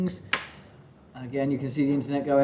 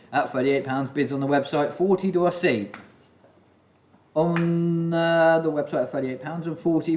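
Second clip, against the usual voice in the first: auctioneer. Real, not acted. Auction bid calling.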